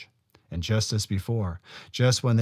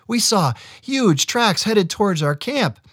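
high, urgent brother voice; breathless, urgent warning; excited young brother; 12 semitones higher, 6 dB louder than usual. A narrator's reading.

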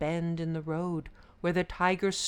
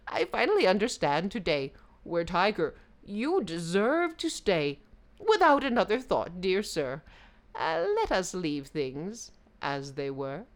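sly jackal; 4 dB louder than usual. Acted. Jackal gloats.

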